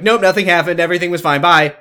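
quick breezy brush-off; dismissive teen voice. Retold or imitated. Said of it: "Amy and Ashley are like".

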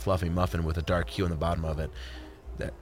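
tipsy, rambling speech; drunk. Acted. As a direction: slur a little, tipsy. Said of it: "I'm a little drunk".

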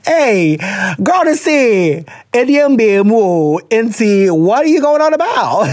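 a rising, playfully shocked question; teasing disbelief. Real, not acted. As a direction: act shocked and amused.

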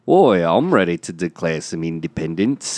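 put-on Liverpool band accent; a band member. Actor rejoins the reenactment, Liverpool accent. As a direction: slip into a Scouse band-member voice. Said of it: "Oh, that's him".

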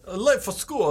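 lightly put-on Russian accent. Repeating a Back to the Future line as a Russian, mock accent. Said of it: "Back to the Future as Russians".

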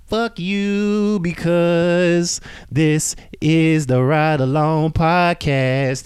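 high, slow, emphatic rant at listeners; yelling. Real, not acted. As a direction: shout it out, drawn-out and high. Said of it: "Why am I yelling at y'all?".

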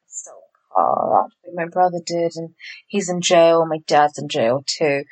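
put-on broody boy. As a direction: mimic Ryan's moody mumble. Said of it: "The original fucking broody boy".

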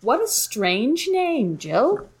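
news anchor voice. Acted. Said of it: "anchor voice".

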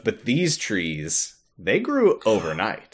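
low, slow, soft spooky reveal; hushed dramatic quote. Retold or imitated. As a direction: drop it low like a ghost story. Quoting doctor dramatically.

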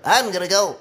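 lightly voiced slug, a touch high; a hint of a creepy slug creature. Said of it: "A different slug voice".

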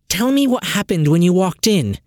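commanding question; demanding. A narrator's reading. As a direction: insist on an answer. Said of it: "she demanded".

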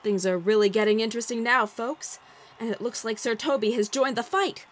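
excited ringside announcer; fight commentary. A narrator's reading. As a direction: call the round like a boxing match. Narrator play-by-play.

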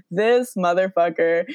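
slow, weary mock exasperation; so over him. Son fed up with his absent dad, retold exasperation. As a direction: draw it out like you're fed up. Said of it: "so over him".

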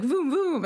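playful engine voom; car noise imitation. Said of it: "He's like".

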